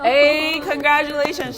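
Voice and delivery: excited. Real, not acted. Cheering friend's working code.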